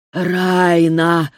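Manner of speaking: rasped. Acted. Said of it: "прохрипел он".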